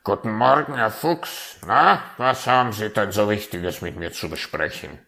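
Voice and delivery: a chirpy bird greeting its host; raven voice. Acted. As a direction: raven greets the fox, curious.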